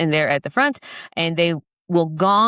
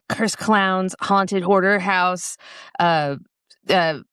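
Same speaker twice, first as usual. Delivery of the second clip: slow, drawn-out titles; slow listing; 2 semitones higher, much slower than usual. Retold or imitated. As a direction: savour each title. Reading out titles slowly.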